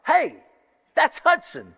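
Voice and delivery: high, bright call of spotting someone on TV; excited recognition. Retold or imitated. Seeing his nephew on ESPN, an excited high call-out. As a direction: call out like you just spotted your nephew. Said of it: "and I'm like".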